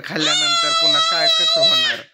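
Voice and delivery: high laughing whine; laughing protest. Real, not acted. Protesting extra food. (हसत हसत उंच आवाजात तक्रार)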